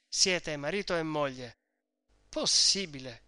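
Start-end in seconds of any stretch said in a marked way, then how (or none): 2.3-3.2 esclamazione stupita. Acted. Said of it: "esclamò Lucia".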